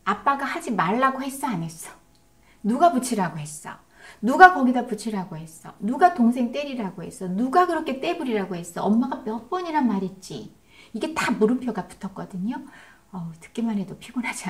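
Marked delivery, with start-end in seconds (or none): 0.0-10.6 rapid-fire scolding questions, voice louder; exasperated parent firing off questions; nagging interrogation. Shown as a demonstration. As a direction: grill the child with one accusing question after another. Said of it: "제가 해볼게. 들어보세요".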